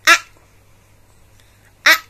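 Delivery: short "A." said as in apple; teacher models short a; short a sound. Shown as a demonstration. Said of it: "Can you repeat after me?".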